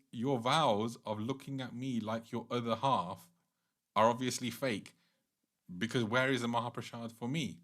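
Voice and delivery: mildly indignant, emphatic accusation; acted angry reproach. Durga Mata scolds Shiva for not sharing, mild acted anger. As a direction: scold him with a touch of hurt outrage. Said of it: "Durga Mata became angry".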